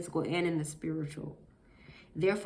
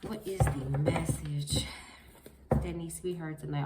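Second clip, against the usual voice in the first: preaching; 3 semitones lower than usual. Real, not acted. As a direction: preach it, drawing out "message". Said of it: "I'm finna get on here and preach".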